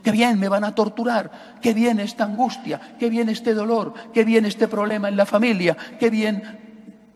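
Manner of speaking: sarcastic qué bien, hammed-up cheer; mock cheerfulness. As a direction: pretend to welcome the pain. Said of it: "No voy a la cruz diciendo".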